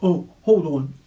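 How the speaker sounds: loud sudden call; wolf calling out loud; cried out. A narrator's reading. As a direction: call out through the door. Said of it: "cried the voice".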